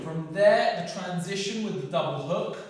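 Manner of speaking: loud, punchy combo calls; boxing coach calling combos. Shown as a demonstration. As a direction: call each punch as it lands. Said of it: "calling the full combo run".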